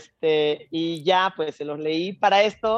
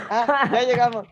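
fake innocent; 7 semitones higher than usual. Feigning innocence in the car.

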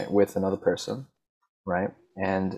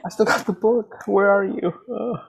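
high, louder plea, laughing at first; calling out; 5 dB louder than usual. Real, not acted. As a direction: call out to the lost friend. Calling out to lost friend.

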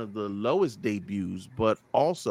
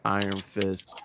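ordinary delivery

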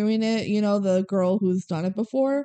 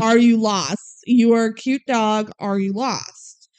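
mock dog lady; 5 dB louder than usual. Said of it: "She's like".

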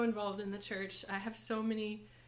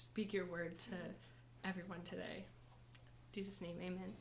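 prayer. Real, not acted. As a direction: pray it humbly, sincerely. Leads an opening prayer.

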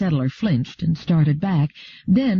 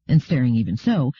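plain reading voice

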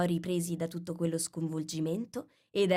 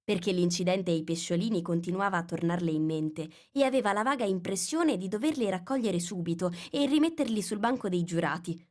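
ordinary delivery

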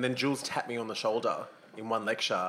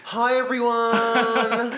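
laughing; 10 semitones higher, 6 dB louder, much slower than usual. Real, not acted. Guest greets with laugh.

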